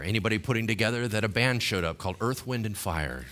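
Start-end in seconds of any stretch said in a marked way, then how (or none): none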